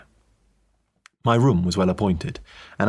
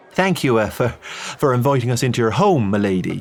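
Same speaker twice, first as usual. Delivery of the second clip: flustered, higher, louder priest voice; nervous Irish priest; 3 semitones higher, 3 dB louder than usual. Acted. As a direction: stammer it out, bowing to a lady. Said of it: "he offered, with a bow".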